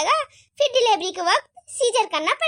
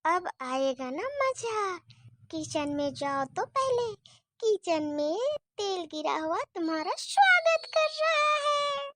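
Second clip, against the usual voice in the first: gloating aside; 6 dB quieter than usual. Acted. Gloating aside about oil trap.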